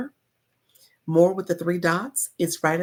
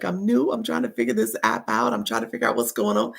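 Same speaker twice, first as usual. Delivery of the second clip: lightly whiny, higher-pitched overwhelmed beginner; mock crying newbie; 4 semitones higher than usual. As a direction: play a confused newcomer on the verge of mock tears. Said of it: "my newbies are the ones that are crying".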